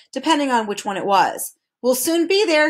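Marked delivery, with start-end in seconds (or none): 1.8-2.7 announced happily. A narrator's reading. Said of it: "he announced happily".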